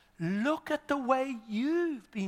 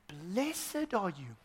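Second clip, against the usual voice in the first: soft, very slow reading; hushed, stretched-out pronouncement; solemn blessing; 8 dB quieter, much slower than usual. Acted. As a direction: draw it out softly. Slow reading before excited paraphrase.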